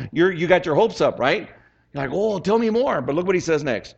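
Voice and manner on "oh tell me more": higher-pitched, hopeful mock eagerness; eager listener. Preacher acting out a hopeful reader, eager. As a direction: play someone hungry for more.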